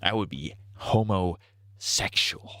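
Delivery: slow, hushed whisper; mock whispered confession; whispered aside. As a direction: whisper it like a secret. Whispered punchline.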